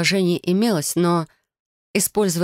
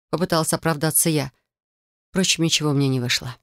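ordinary delivery, nothing marked

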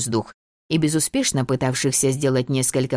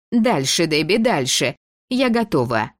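нетерпеливо; 4 semitones higher than usual. Acted. Фиби торопит подругу.

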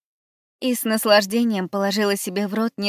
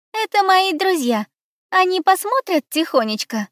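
timid; 11 semitones higher, 5 dB louder than usual. Acted. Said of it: "робко спросила Габи".

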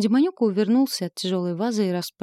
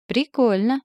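sarcastic yelp; 5 semitones higher, 5 dB louder than usual. Acted. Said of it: "вякнула я".

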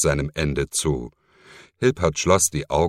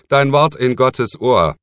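lightly smiling, higher; with a smile; 8 semitones higher, 7 dB louder than usual. Acted. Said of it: "mit einem Lächeln". (mit einem Lächeln gesprochen)

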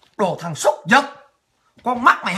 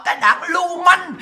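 slow angry shout; 5 semitones higher than usual. Real, not acted. Escalating insults at party.

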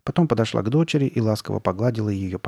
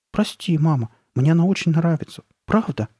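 higher-pitched, heartfelt apology; fervent; 7 semitones higher than usual. A narrator's reading. Daughter apologises to her hurt mother, fervent. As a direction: plead earnestly that you really like it. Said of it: "горячо проговорила Карли Бет".

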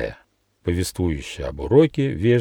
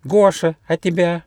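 much higher squeaky mouse voice, drowsy; sleepy little mouse; 10 semitones higher, 3 dB louder than usual. Acted. Mouse Gosha waking up asks the gnome, high mouse voice. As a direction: peek out with one eye and ask sleepily.

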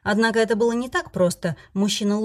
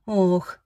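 groan. Acted. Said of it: "Фредерик застонал".

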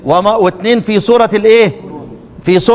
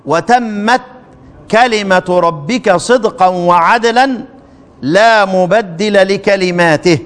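slow, measured recitation; Quran recitation; much slower than usual. Shown as a demonstration. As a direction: draw the verse out reverently.

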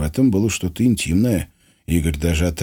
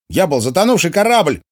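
shouting; 11 semitones higher, 4 dB louder than usual. A narrator's reading. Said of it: "крикнул он".

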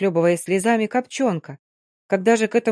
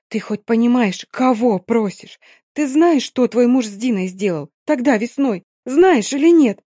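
furious; 3 semitones higher, 4 dB louder than usual. Acted. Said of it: "яростно прошептала".

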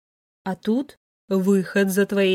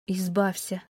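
much softer, hollow repetition; numb echo; 3 semitones lower, 7 dB quieter than usual. Acted. Daughter numbly repeats her mother's cold advice, hushed. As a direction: barely voice the word, stunned.

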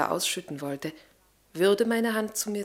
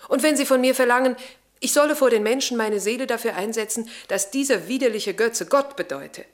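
louder, building indignant protest; rising indignation; 3 semitones higher, 4 dB louder than usual. Acted. Lavinia to the captain, refusing to worship: indignant. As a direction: hurl it at the idol-worshippers.

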